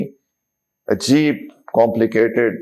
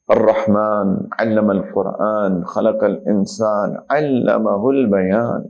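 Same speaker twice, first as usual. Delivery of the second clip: Quran recitation; slower than usual. Acted. Quotes Quran verses in sermon.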